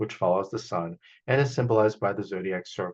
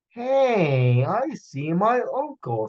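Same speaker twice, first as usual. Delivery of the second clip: put-on high, excited boy calling; young Bo; 8 semitones higher, 4 dB louder, much slower than usual. Bo excitedly calls out to his friends, high. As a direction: call out spotting your uncle. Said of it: "said Bo".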